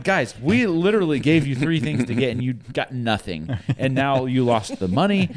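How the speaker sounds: mock exasperation at the kids; exasperated scolding. Parent to boys back from the store, exasperated scolding.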